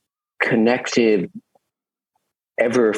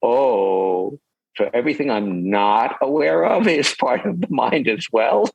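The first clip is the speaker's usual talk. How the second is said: a raised, wondering realisation; dawning surprise; 4 semitones higher than usual. Retold or imitated. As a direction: gasp at the new idea. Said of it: "it's like".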